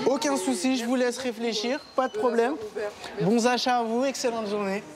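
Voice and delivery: cheerful shop greeting voice. Real, not acted. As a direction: greet the shopper like an eager salesman. Salesman seeing customer off.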